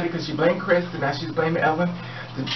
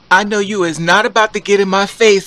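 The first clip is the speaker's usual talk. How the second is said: hammed-up yell, much louder; mock shout; 6 semitones higher, 13 dB louder than usual. Mock shout at Caitlin getting in her face. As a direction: bark it like a sassy face-off.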